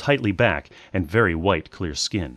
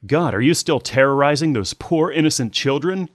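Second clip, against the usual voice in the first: exasperated scolding; 8 semitones higher, 3 dB louder than usual. A narrator's reading. Daughter scolds her mother.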